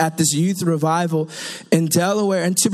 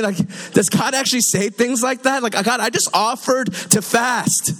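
higher, mock-baffled complaint; incredulous protest; 3 semitones higher than usual. Preacher questions God about feasting, comically incredulous. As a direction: drag out the comic disbelief.

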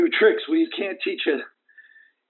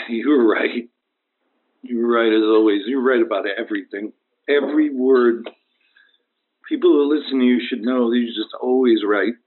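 weakened, solemn; 3 semitones lower than usual. Acted. Injured caller's deathbed praise of host.

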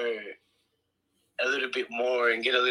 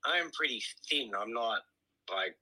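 mouth full; 3 dB quieter than usual. Real, not acted. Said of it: "are you eating chips as we talk right now?".

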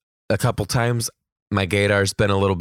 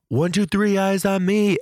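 yelled passcode; 12 semitones higher than usual. Retold or imitated. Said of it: "to yell".

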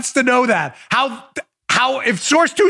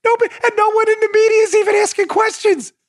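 ordinary delivery

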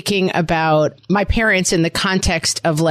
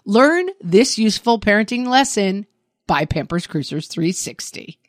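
upbeat podcast ad read. Acted. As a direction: sell it like a radio spot. Reads a Pampers ad.

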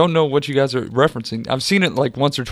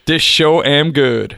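reading the sign; slower than usual. Retold or imitated. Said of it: "underneath it said".

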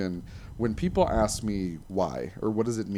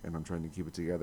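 crying with laughter; 4 semitones lower, 10 dB quieter, faster than usual. Real, not acted. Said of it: "I'm now crying".

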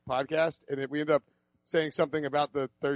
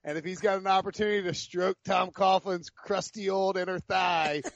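laughing; 4 semitones higher than usual. Real, not acted. Mocking Prisco, laughing.

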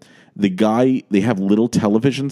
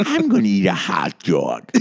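a playful hint of Carol Channing; Carol Channing impression; 3 semitones lower than usual. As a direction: mimic Carol Channing's caricature voice. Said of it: "before she was a caricature accent".

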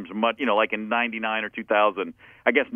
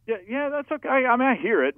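grudging; 12 semitones higher than usual. Retold or imitated. Inner thought, grudging.

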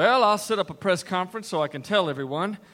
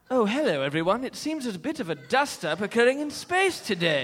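mellifluous announcer; 3 semitones higher than usual. Retold or imitated. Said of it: "you're so mellifluous".

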